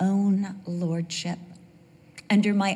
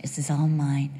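possessive grandson; 6 semitones lower, 4 dB quieter, faster than usual. Retold or imitated. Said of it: "he's just holding on like".

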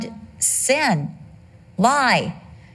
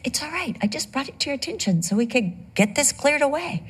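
much softer, higher, kindly reassuring; gentle reassurance; 4 semitones higher, 4 dB quieter than usual. Retold or imitated. The Holy Spirit comforting him, soft and gentle. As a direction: ease his guilt softly. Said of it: "And he's like".

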